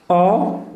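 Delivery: ऑटम broken into two drawn-out syllables; pronunciation demo. Shown as a demonstration. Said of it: "ऑटमन नहीं बोलेंगे".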